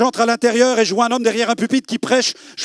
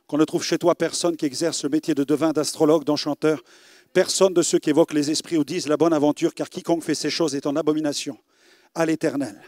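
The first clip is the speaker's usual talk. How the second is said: low, quiet solemn reading; scripture reading; 4 semitones lower, 4 dB quieter than usual. Acted. Preacher reading the Deuteronomy verse quietly to the congregation. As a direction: read the verse softly and gravely.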